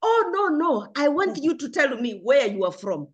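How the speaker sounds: mock insistence, opening high; insistent questioning. Stranger presses her on where she is from, mock insistent. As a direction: imitate a questioner refusing the answer. Acts out persistent questioner rejecting answer.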